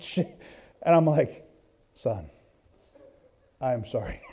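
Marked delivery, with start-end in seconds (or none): 1.9-4.2 softer, laughing apology to son. Retold or imitated. Father apologising to frightened son, softer. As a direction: say it low and sheepish.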